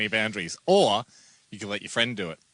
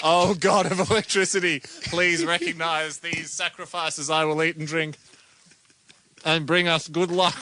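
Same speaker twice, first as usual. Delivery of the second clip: solemn invocation; 4 semitones higher than usual. Pretend. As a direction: call to the god grandly. Invocation to electricity god.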